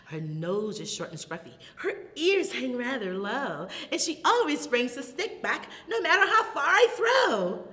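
lively, lilting storytime verse; animated singsong puppy rhyme; children's rhyme recitation. Acted. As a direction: bounce through the rhyme for toddlers.

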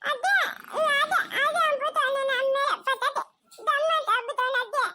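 put-on a small child sobbing to grandma; crying child. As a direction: whimper it out through tears. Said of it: "ಅಳ್ಬೇಡ".

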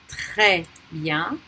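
Très bien as "treh byan", no S; silent S. Shown as a demonstration. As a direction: say Très bien with Très ending on its vowel. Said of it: "We don't pronounce that S".

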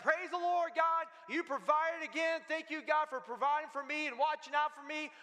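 high-pitched imitation of grateful praise; retold jubilant thanksgiving; joyful praise. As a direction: call out thanks to God, acting overjoyed. Retold woman thanks God joyfully.

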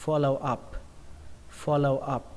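"Follow up" with a light puff on the p; final P released. Shown as a demonstration. Teacher models the phrase for learners, P lightly aspirated. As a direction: end "Follow up" on a slightly aspirated p. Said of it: "P nó bắn hơi ra một chút".

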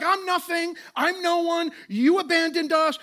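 high, loud, whiny protest; hammed-up despairing Gideon; self-pitying complaint. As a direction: wail it like a man who feels abandoned. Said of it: "He's like".

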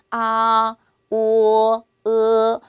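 아 오 으 each loud and held; Chinese vowels. Shown as a demonstration. Teacher recites main vowels for learners, loud and clear. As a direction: model the three vowels one by one. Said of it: "이런 게 주요 모음이라는 거죠".

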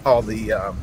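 talking while driving over bumps; on a bumpy road. Real, not acted. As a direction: voice jolted by bumps. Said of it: "sorry for the bumps".

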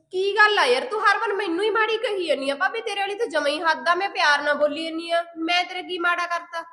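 aggrieved outburst; indignant complaint. Acted. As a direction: raise your voice, hurt and fed up. Sister-in-law quarrel, feeling wronged.

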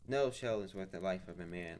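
firm, grave rebuke; stern. Acted. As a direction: lay down the moral plainly. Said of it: "I said sternly".

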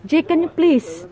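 slow, loud exasperated plea. Real, not acted. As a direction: drag it out in exasperation.

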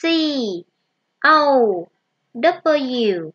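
letters C, O, W said one at a time with long pauses; teacher spelling cow slowly for kids; spelling aloud. Shown as a demonstration.

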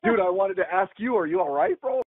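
mock high, rising worried bro voice; quoting his costar with a high questioning lilt; mimicking Sean. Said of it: "He's like".

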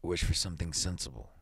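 low, soft, gruff advice. A narrator's reading. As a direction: advise gruffly, keeping the volume down. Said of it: "he said gruffly".

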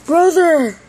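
loud call to the brother. Acted. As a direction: shout for him to come. Calling to brother plush.

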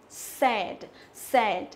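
"sad" with open E vowel and d ending; teacher's careful "sad", voiced d; correct model. Shown as a demonstration. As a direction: repeat "sad" clearly as a model. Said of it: "là âm E".

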